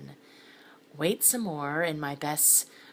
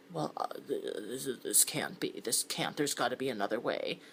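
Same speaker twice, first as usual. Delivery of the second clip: stammering; 4 semitones lower, 4 dB quieter than usual. Acted. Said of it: "he was stammering".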